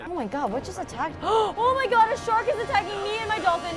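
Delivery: panicked, gasping with fear; frantic, a shark right behind; being chased. Real, not acted. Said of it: "this is terrifying".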